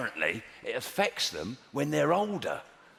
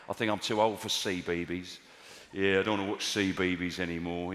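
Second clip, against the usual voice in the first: put-on low, soft, unlikely voice for a little girl; mock daughter voice; 7 semitones lower, 3 dB quieter than usual. Daughter tells Dad she's outgrown kids' TV, in a comically low voice. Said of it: "she doesn't talk like that".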